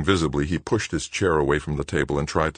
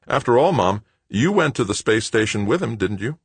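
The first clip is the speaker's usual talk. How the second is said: a touch higher, coaxing son; lightly voiced young man; 6 semitones higher, 4 dB louder than usual. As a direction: coax her, lightly voiced. The son coaxing his mother.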